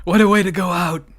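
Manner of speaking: loud, high laughing exclamation; laughing shout. Real, not acted. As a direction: burst out laughing and cheer. Laughing at lucky sixty-nine.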